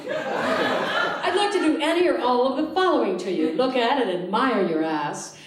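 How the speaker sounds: hammed-up sleazy ad reading. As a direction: savour the filthy words. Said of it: "It went like this".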